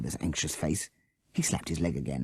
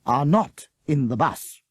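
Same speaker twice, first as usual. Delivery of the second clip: coldly; 8 semitones higher, 5 dB louder, slower than usual. A narrator's reading. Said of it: "Miss Beaver said coldly".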